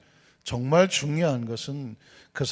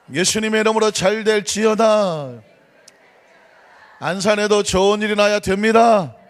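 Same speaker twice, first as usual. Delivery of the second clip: loud, rhythmic declaring of blessing; preaching declaration; 4 semitones higher, 5 dB louder than usual. Acted. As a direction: proclaim each line to the congregation. (회중에게 축복을 선포하는 힘찬 설교조)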